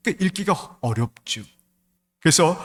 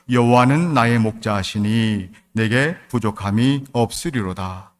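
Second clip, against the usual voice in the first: scripture reading; 4 dB louder, slower than usual. Shown as a demonstration. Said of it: "일 절 말씀 한번 볼까요".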